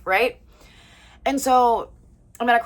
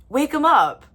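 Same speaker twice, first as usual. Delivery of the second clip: switched attitude; 7 semitones higher, 5 dB louder than usual. Retold or imitated. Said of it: "switches attitude".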